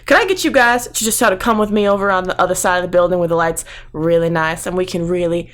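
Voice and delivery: badly faked Southern smooth talker; amateur Texan accent; bad Texas accent. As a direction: coax the guards in a put-on Texan accent. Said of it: "I have a terrible accent".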